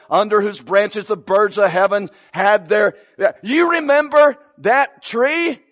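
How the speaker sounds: lightly voiced Daniel pinning it on the king; Daniel breaking the news. Daniel telling the king the felled tree is him.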